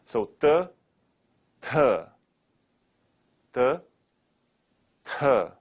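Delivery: tongue on front teeth for Th; dental t. Shown as a demonstration. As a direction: tap Th lightly against the teeth. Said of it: "the tongue touches the front teeth".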